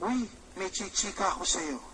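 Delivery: a friend teasing a secret, low and hushed; hushed gossip. Retold or imitated. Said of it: "sinabi sa inyo yung kaibigan niyo".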